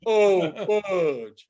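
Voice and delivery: drawn-out mock movie swear; lightly imitated movie cursing. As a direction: lightly quote a film character's mishap curse. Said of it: "in A Christmas Story when he fucks up".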